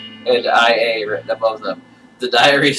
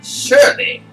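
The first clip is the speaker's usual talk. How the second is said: whisper; 6 dB louder than usual. Acted. Player reply, whispered.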